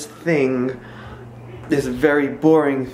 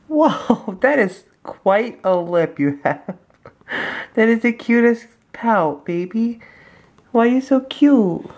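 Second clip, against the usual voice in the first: amused cooing; 5 semitones higher, slower than usual. Real, not acted. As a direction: delight at the pout. Laughing at baby's pout.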